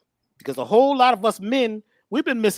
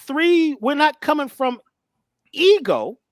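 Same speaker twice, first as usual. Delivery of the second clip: pitched up and louder, preacher's lift; fervent, higher and louder declaration; rising fervor; 7 semitones higher, 4 dB louder, slower than usual. Real, not acted. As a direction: build it like a sermon punchline. Preaching punchline about ego.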